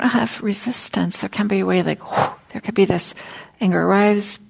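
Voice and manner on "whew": forceful exhaled whew; acted whoosh of air; blown-out whew. Shown as a demonstration. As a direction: blow out a quick gust of breath. Imitates the rush of anger arriving.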